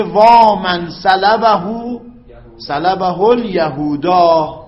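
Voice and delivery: very slow recited lament, long وا; drawn-out lament. Shown as a demonstration. Teacher reading the lament example aloud, slow and stretched. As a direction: draw out the cry وا like mourning. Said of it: "میگه".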